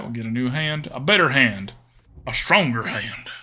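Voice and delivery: put-on folksy country Southern accent. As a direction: put on a playful Southern twang.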